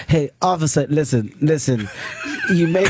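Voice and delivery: lightly imitated African accent, addressing an officer; a hint of African English. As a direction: imitate your African friend reasoning with police. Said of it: "he's got this African accent".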